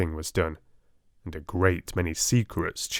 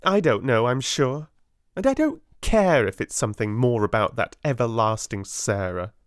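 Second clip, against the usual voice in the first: haughty schoolgirl, pitched up; spiteful Lavinia; 3 semitones higher than usual. Acted. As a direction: sneer it like a spoiled rich girl. Lavinia voiced in story.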